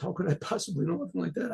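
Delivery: soft, quick self-effacing protest; retold humble protest. Old woman modestly answering the Baal Shem Tov's pupils, humble protest. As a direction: brush it off quickly and softly.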